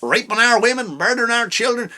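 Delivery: a hint of an insane redneck ranting about the border; crazy redneck. Mocking a redneck who rants about the border, lightly voiced. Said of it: "sound like a fucking crazy redneck".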